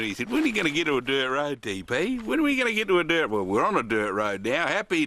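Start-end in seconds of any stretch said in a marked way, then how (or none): 0.3-3.3 impatient. Retold or imitated. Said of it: "he's been champing at the bit all afternoon".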